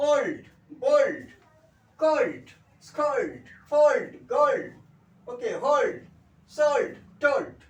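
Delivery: ওল্ড, বোল্ড, কোল্ড each loud and high, with dark L; dark L drill. Shown as a demonstration. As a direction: call out ওল্ড to গোল্ড one by one, stressing the -old. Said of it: "ও plus এল".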